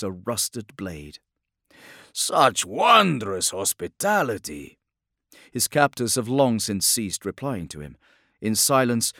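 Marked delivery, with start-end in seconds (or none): 2.1-4.8 slow, dripping irony; sarcastic praise. Acted. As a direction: praise it mockingly. Sarcastic to captors.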